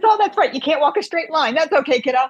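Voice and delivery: high-pitched mock sympathy; retold teasing. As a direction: imitate a doctor kidding his patient. Retold doctor teasing his patient.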